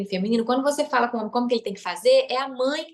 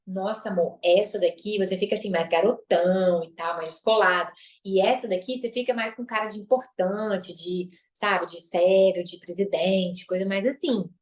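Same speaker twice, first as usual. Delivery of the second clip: sweet wifely suggestion; 3 semitones lower than usual. Shown as a demonstration. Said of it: "Você fala assim".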